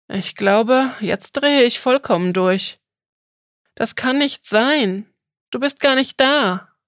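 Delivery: put-on a boy who thinks he is losing his mind; panicked disbelief. Boy tells the turtle it cannot exist, rising panic.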